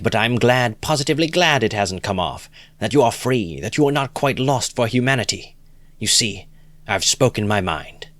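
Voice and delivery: lightly voiced enthusiastic idealist; eager Lebeziatnikov. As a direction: gush with approval. Lebeziatnikov argues fervently.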